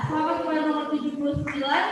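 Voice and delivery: quick, laughing congratulations; laughing repeat. Real, not acted. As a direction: rattle it off again with a laugh.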